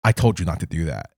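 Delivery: low, ominous phone-caller voice; deep voice. Retold or imitated. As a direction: drop low like a menacing stranger. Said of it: "like, a deep voice".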